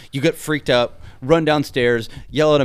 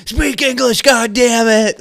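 retold angry yell; 10 semitones higher, 7 dB louder than usual. Retelling Richard yelling at Alvarez.

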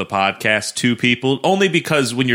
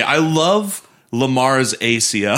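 mock fan line. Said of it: "And say".

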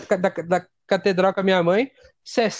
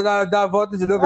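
ordinary delivery

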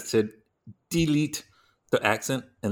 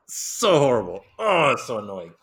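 exasperated venting. Real, not acted. Critic finally venting about a film accent, exasperated. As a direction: let the pent-up annoyance out.

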